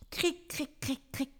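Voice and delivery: quiet imitated cric sound; soft cracking noise. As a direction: whisper a twig crack sound. Storyteller imitates forest noise.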